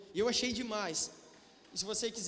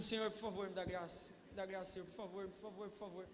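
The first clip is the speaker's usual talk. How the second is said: pleading prayer; 3 semitones lower, 10 dB quieter than usual. Retold or imitated. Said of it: "e pedindo".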